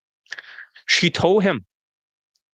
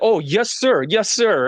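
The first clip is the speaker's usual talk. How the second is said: higher-pitched imitated compliance; mock obedient client; 5 semitones higher, slower than usual. Client answering his drill-sergeant coach, mock obedient and higher. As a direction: lightly mimic an eager trainee.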